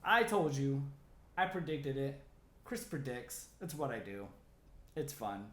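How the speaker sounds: loud, high, slow I told you so; gloating. Retold or imitated. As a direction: rub it in smugly. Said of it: "I'll be all over Instagram saying".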